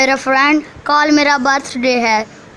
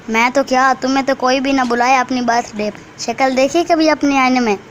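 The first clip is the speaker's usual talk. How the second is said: put-on scornful spoilt child; 7 semitones higher than usual. Golu shuns poor Gori from his party, scornful. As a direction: put a poorer friend down.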